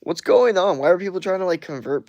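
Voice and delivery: what on earth is this; baffled outburst. Real, not acted. Baffled at chat.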